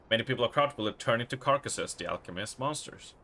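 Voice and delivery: quick, hushed note reading; reading a note aloud. Acted. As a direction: read the diary entry fast. Reads a found notebook.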